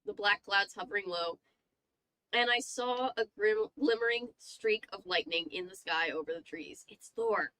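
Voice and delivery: measured, suspenseful read-aloud; story narration. A narrator's reading. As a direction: narrate an eerie tale, lingering on the descriptions. Reads a horror story aloud.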